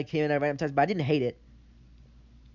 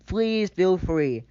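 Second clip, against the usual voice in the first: sarcastic invitation; 2 semitones higher, 5 dB louder, much slower than usual. Real, not acted. Sarcastic challenge to show evidence.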